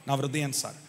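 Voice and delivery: soft, low and intimate; hushed repeat. Retold or imitated. Preacher repeats God's words on David to the congregation, hushed. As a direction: let it sink in quietly.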